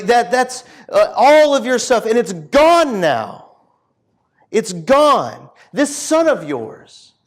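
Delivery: indignant, emphatic complaint, acted out; retold anger. Older son protesting to his father, acted indignation. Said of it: "the older son is just angry".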